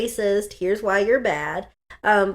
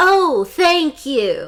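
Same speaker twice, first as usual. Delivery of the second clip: very thick sarcasm, loud and swooping; 5 semitones higher, 5 dB louder than usual. Retelling a woman's reply, imitating her very sarcastic thank-you. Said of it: "she says in the most sarcastic voice".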